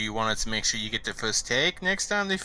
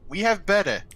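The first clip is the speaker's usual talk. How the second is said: menacing threat; 7 semitones higher, 5 dB louder than usual. Acted. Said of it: "I manifest my warhammer and go like".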